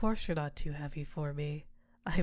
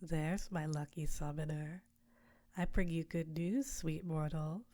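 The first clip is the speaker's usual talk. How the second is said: succubus queen. Acted. Succubus Tiamat to her summoner, seductive close voice. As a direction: purr over your mortal like a temptress.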